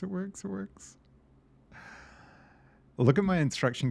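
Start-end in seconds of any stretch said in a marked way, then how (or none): 0.0-1.0 much higher, squealing with joy; delighted squeal. Real, not acted. Squealing to the viewers as his solution finally works. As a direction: squeak it out in giddy triumph.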